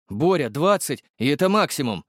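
high, gossipy driver voice; the driver Igor bringing Borya the news, high and chatty; chatty young driver. Acted. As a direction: rattle it off, pitched high. Igor bargains.

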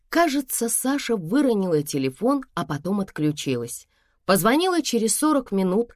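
ordinary delivery

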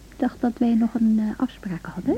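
unvoiced late-night whisper; hushed whisper. Wife in bed, whispering to her sleepy husband. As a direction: whisper softly so as not to wake.

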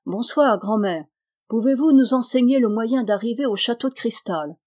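forced friendliness. Acted. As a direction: put on a pleasant tone. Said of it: "d'un air qu'il s'efforça de rendre aimable".

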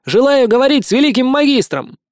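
high, loud shout across water; loud call. Acted. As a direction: call out boldly to the master. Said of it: "громко крикнул таинственный незнакомец". (громкий крик)

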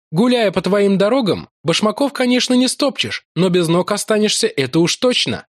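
Larry complaining with a grin; wry Irish lieutenant. A narrator's reading. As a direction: grumble wryly about sore feet. Larry jokes about the roads.

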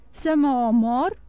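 slow, incredulous question; astonished. A narrator's reading. Andrea, told to kill himself, asks in astonishment. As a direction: echo the order in disbelief. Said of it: "se miră el".

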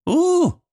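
long high disappointed oo; disappointed hoot. Acted. Boy learns the teacher has no medals, disappointed high hoot. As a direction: hoot like a let-down kid. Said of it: "разочарованно прогудел".

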